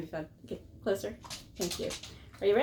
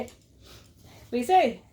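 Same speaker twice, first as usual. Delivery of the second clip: very slow, cooing question; baby talk to dog; 4 dB louder, much slower than usual. Pretend. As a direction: coo slowly to coax the dog.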